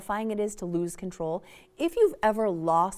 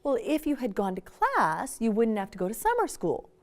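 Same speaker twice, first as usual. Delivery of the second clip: know-it-all parent lecture. Retold or imitated. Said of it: "So we say".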